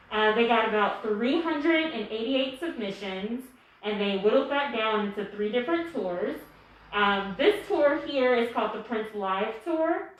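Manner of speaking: muffled, speaking through a mask; through a face mask. Real, not acted. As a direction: talk through a cloth mask. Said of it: "Forgive my mask".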